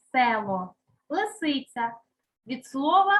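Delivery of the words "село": село with a clear, full «е»; lower-pitched село, first vowel sounded as written; spelling pronunciation. Shown as a demonstration. Teacher confirms the letter, село with distinct «е». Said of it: "пишемо букву".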